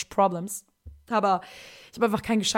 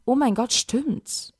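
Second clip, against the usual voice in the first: realising surprise; 4 semitones higher, 3 dB louder, much slower than usual. Retold or imitated. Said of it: "Und ich war so".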